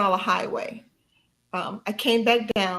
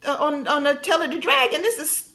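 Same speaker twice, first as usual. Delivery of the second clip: confident self-talk; 5 semitones higher than usual. Retold or imitated. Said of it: "it was like".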